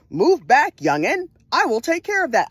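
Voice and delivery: lightly voiced Southern dad; Southern accent. Father telling his daughter to move back from the door, Southern accent. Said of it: "like, a Southern accent".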